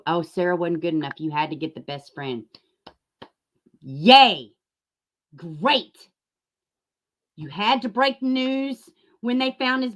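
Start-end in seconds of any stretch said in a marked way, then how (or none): 3.8-6.0 loud, flat mock cheer; sarcastic yay. Mocking her scoop with a sarcastic cheer. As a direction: cheer it like you mean the opposite.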